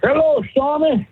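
a hint of a crooning caller drawing out the name; Mister Henry Lee impression. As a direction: stretch the hello out in a borrowed radio voice. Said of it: "I'm doing my, my Mister Henry Lee on you".

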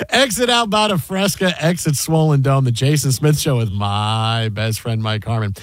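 announcer patter stepping down in pitch; radio host's rolling sign-on; radio show intro. Real, not acted. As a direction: start up, then sink low for the sign-on.

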